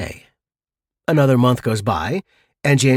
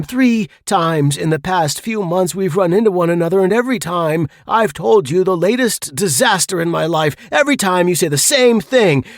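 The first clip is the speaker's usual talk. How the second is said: fed up; 5 semitones higher than usual. Acted. Fed-up Harry confronting James after three disasters, exasperated. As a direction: let the frustration build.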